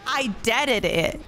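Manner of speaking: slow, drawn-out quote of him; mimicking his phrase. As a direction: quote him slowly, dwelling on the odd word. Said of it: "that's how he said it".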